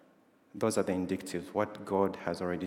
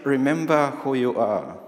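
loud, higher booming father-lion command; Mufasa voice; 5 semitones higher, 9 dB louder than usual. Retold or imitated. Preacher booms Mufasa's line to the congregation, loud mock voice. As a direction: belt it out like the lion king's ghost. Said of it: "in a deep voice of the Mufasa voice".

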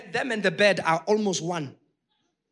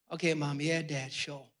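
put-on lower, softer, shrugging kid reply; dismissive kid; 6 semitones lower, 7 dB quieter than usual. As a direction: brush off mom and dad like a bored teenager. Kids brushing off parents.

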